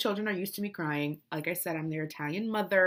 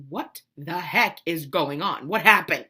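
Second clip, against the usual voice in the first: baffled husband; 5 semitones lower, 4 dB louder than usual. Retold or imitated. Husband coming upstairs to the chaos, imitated bafflement. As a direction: lower voice, building to loud. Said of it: "My poor husband came up".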